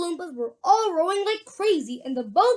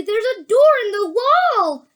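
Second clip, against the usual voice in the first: excited cry; 7 semitones higher, 7 dB louder, faster than usual. A narrator's reading. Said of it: "cried Charlie".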